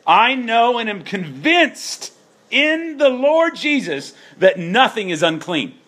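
high, slow, drawn-out Paul quote; voicing Paul, high and slow. Preacher voicing Paul's bold conviction, high and slow. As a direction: lift way up and stretch it like Paul declaring.

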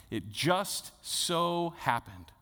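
slow, knowing "It just so happened"; ironic. Shown as a demonstration. Pastor winking at the congregation over the verse, slow and ironic. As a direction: let the irony sink in slowly. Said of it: "meant to be ironic in the way that we read it".

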